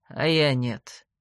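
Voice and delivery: a sad little laugh of defeat; sad smirk. A narrator's reading. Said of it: "печально усмехнулся он". (печально, с горькой усмешкой)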